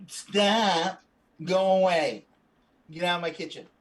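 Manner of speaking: cross, loud kitchen outburst; irritated cook. Acted. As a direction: play a fed-up cook ordering someone out. GM voices cook shooing player away.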